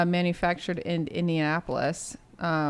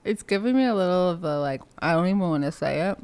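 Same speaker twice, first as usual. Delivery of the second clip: talking with sour candy in mouth; eating sour candy. Real, not acted. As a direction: speak around a sour candy, mouth watering. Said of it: "you get enough saliva and it's all sour".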